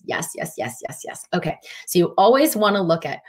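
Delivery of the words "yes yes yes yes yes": soft breathless whispered agreement; whispered yeses. Real, not acted. Coach agreeing with a viewer's question, whispered yes. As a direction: whisper yes to yourself, eager.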